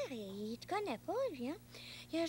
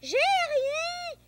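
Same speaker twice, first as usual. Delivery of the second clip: higher and louder, calling to another room; 9 semitones higher, 6 dB louder, slower than usual. Real, not acted. Boy calls back to his mother from another room, loud. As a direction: shout the answer across the house.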